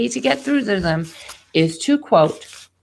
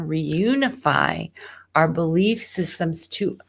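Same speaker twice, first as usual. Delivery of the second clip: slow deep voice. Shown as a demonstration. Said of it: "speak with a deeper voice tone".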